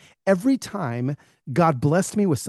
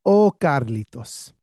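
slow, knowing fatherly drawl; imitated dad, slow and deliberate; dad on the phone; 3 semitones lower, slower than usual. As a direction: draw it out as an imitated wise dad. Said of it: "he says over the phone, he goes".

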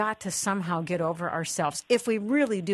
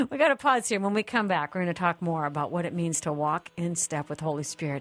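upbeat announcer read over music; radio host break. Acted. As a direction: tease the next segment like a radio host. Host's break and giveaway read.

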